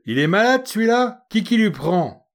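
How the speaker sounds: put-on indignant street girl with a hoarse edge; hoarse working-class girl. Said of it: "d'une voix enrouée et faubourienne".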